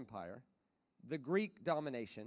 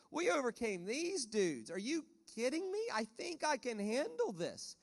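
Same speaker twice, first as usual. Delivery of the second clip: higher, slow, laid-back God talking like a mate; an unbothered God shrugging off the panic; imitating a casual God amused at worried Christians; God in heaven; 6 semitones higher, slower than usual. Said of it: "I can see God in heaven going".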